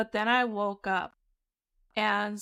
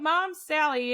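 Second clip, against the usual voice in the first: raised-pitch mock call; retold yell; 4 semitones higher, slower than usual. Sleeper yelling for the roommate, mildly imitated call. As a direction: imitate yelling out, held back. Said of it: "And I yell out".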